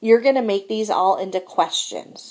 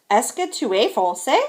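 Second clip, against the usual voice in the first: "français" rising at the end; teacher's model question, voice going up on "français"; question intonation; 2 semitones higher than usual. Shown as a demonstration. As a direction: ask it with a lift on "français". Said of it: "sentences on the right are questions".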